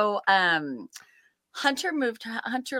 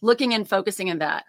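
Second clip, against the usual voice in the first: snarky; 3 semitones higher than usual. Retold or imitated. Mom answering her son, snarky. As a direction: tease him with a sarcastic bite. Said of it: "And very snarky".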